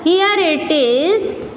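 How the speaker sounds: here with a long drawn E. Shown as a demonstration. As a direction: stretch the vowel in here long. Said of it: "a lengthy pronunciation of E".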